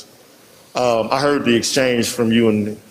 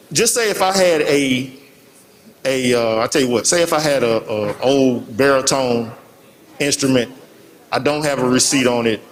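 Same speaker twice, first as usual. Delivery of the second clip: muffled. Real, not acted. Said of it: "your voice was a little muffled".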